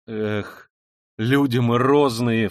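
loud and slow; crying out in bitterness; anguished shout. A narrator's reading. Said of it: "вскричал он опять".

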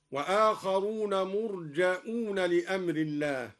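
مرجؤون with a hamza after the jim and a long waw; hamza reading. Shown as a demonstration. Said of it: "قرأ الدوري بهمزة بعد الجيم وواو مدية هكذا".

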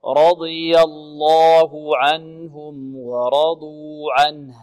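very slow, drawn-out tajweed recitation; Quran recitation. Shown as a demonstration. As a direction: stretch each vowel as a model for the student. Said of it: "teacher recites model". (تلاوة مرتلة بطيئة)

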